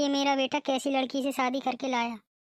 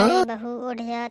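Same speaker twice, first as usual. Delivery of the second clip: louder call with अरे hit hard; impatient shout; 2 semitones lower, 4 dB louder than usual. Acted. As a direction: shout अरे बहू उठ जा to wake her. Louder call to wake her. (झुंझलाकर ज़ोर से पुकार)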